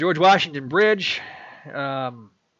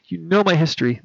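usual speaking voice

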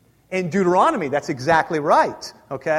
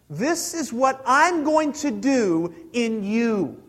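slow and deliberate; 3 semitones higher, slower than usual. Shown as a demonstration. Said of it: "hear this".

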